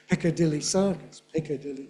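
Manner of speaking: "Piccadilly Circus" with beats on PIC, DIL and CIR; no downgrading. Shown as a demonstration. Teacher repeating for the class, all stresses kept. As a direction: keep the middle beat on DIL. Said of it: "That's no downgrading".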